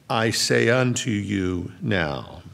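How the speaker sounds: slow phrase with "now" set apart at the end; measured build to a separate, weighted "now"; emphatic now. Shown as a demonstration. Preacher offering the other reading of the verse, emphatic "now". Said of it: "Now it's emphatic".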